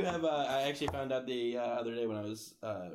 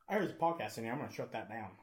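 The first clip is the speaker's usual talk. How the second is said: lightly imitating a comedian's delivery; Dane Cook; faster than usual. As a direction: mimic your friend's mock shutdown order. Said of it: "He, he had the whole".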